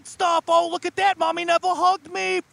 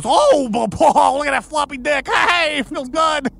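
loud stammering leer; lightly voiced lewd demon; demon in horse body; 4 dB louder than usual. Demon in horse body gloating loudly. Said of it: "he goes".

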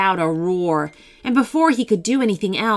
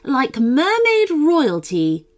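gracious queen voice; 5 semitones higher, 4 dB louder than usual. Acted. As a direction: welcome them like a kind queen. Queen welcomes the girls.

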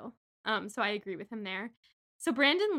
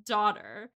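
slow, stretched-out disbelief; mock shock; 3 semitones higher, 3 dB louder, slower than usual. Host echoing co-host over daughter reveal, mock shock. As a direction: drag the words out for the plot twist.

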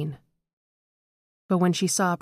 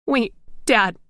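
higher and louder, calling after him; 6 semitones higher, 5 dB louder than usual. A narrator's reading. Daughter calling after her walking father, loud. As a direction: shout to stop him leaving.

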